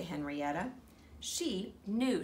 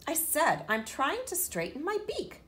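mild irritated glare; 8 semitones higher, 4 dB louder than usual. A narrator's reading. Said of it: "as she glared".

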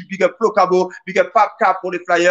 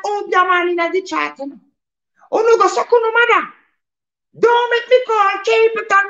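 Jamaican patois voice; 13 semitones higher than usual. Acted. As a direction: play a fired-up Jamaican MC in patois. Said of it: "Heureusement, il parle que jamaïcain". (voix de toaster jamaïcain, aiguë et forte)

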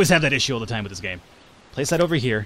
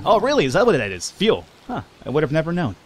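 mock surprise; 4 semitones higher than usual. Gamer answers the game's obvious hint, mock surprise. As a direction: feign amazement at the obvious. Mocks game stating the obvious.

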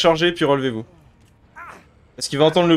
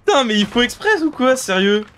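raging gamer; 6 semitones higher than usual. Real, not acted. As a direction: blow up at the teammates. Rage at teammates mid-game.

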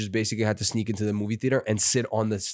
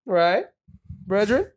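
put-on playful Jamaican accent, rising high at the end; a famous rapper's Jamaican voice; 5 semitones higher than usual. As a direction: imitate a famous rapper doing a Jamaican voice. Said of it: "trying to do his Jamaican voice".

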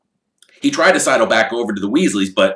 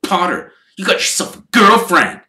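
drawl; 10 semitones higher, 6 dB louder than usual. Acted. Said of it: "drawled Malfoy".

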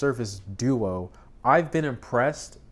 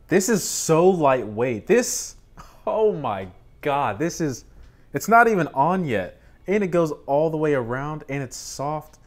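high, loud gushing; thrilled; 5 semitones higher, 5 dB louder than usual. Real, not acted. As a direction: rave about it. Thrilled unboxing.

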